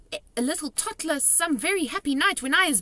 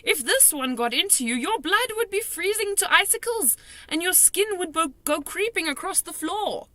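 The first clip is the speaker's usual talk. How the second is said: high, loud spooky menace; dramatic warning; 11 semitones higher, 5 dB louder than usual. A narrator's reading. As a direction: make her shudder. Giant describes nightmare's horror.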